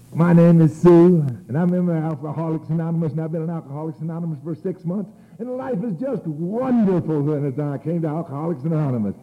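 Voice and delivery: high-pitched, sing-song meeting speaker; mock cheery testimonial. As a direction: parody a blissfully happy newcomer. Mimics a cheery first speaker.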